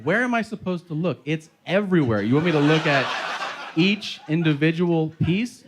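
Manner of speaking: high, exasperated comic questioning; incredulous protest. Retold or imitated. Husband to wife about looking in the bowl, exasperated protest. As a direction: argue it as if the request were absurd.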